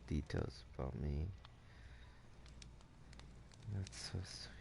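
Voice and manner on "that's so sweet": soft unvoiced whisper; whispered thanks. Real, not acted. Streamer thanking a chatter, whispered. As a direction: breathe it softly to chat. Touched reply to chat.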